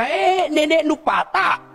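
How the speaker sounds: slow, drawn-out exasperated shout; exasperated outburst. Acted. Preacher mocking quick talk of hell, slow exasperated shout. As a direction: throw it out like a fed-up grandma curse.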